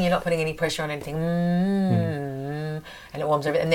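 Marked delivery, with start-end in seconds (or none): 1.1-2.8 steady, easy closed-mouth hum; humming. Shown as a demonstration. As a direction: hum gently, putting no pressure on it. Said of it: "'Cause humming".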